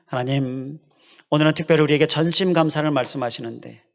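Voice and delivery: earnest pastoral prayer; building, fervent prayer. Acted. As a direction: pray sincerely for the congregation. Leads closing prayer.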